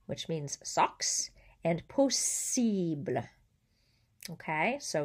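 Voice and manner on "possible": POSSIBLE said slowly in French with a long hissed S; S sound. Shown as a demonstration. Teacher giving a double-S example, S sound. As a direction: draw out the hiss in possible. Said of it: "an S sound".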